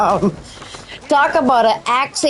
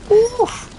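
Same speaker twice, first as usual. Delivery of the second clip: high oof; 13 semitones higher than usual. Pretend. High reaction sound.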